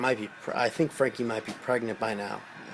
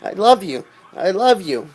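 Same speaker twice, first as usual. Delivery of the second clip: higher, louder, repeated love; overwhelmed gushing; 7 semitones higher, 7 dB louder than usual. Retold or imitated. To the commander grabbing him, overwhelmed gushing. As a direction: gush it out, shaking with emotion. I'm shaking.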